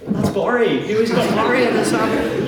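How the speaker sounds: a hint of a mournful cow. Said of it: "you see cows in the fields going".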